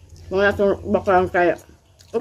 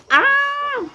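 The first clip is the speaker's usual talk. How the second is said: delighted gasp. Real, not acted. Tasting food, delighted reaction.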